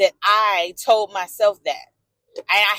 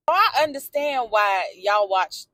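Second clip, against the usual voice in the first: usual speaking voice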